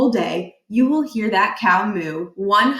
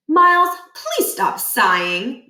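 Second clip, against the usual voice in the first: higher, slower mother asking nicely; a mom pleading from the driver's seat; mom's voice; 5 semitones higher, 3 dB louder, slower than usual. Acted. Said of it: "Judy Murphy said from the driver's seat".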